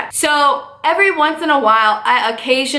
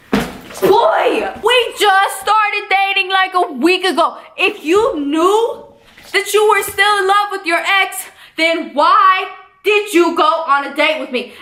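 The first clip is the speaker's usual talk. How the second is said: indignant outrage; 5 semitones higher than usual. Retold or imitated. Outraged rant at the ex.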